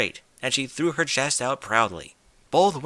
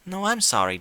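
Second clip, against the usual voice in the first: refined lady; 8 semitones higher than usual. Acted. Rarity apologizes.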